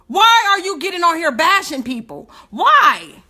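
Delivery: real crying indignation; tearful. Real, not acted. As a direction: voice near crying, then a loud cry of why. Upset at being bashed.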